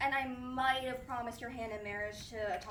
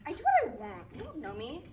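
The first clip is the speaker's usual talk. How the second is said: put-on defiant teen; 5 dB louder than usual. Defiant teen talks back.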